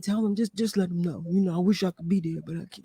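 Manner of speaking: slight imitation of an absent co-host passing on regrets; Donovan. Relaying the absent co-host's message to guests, lightly imitated voice. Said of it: "That's my best Donovan voice".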